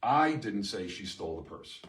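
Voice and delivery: I hit hard at the start; stress on I. Shown as a demonstration. Teacher showing a meaning shift by stressing I. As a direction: lean on I so it means someone else said it. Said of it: "say them in exactly the same order and mean seven different things".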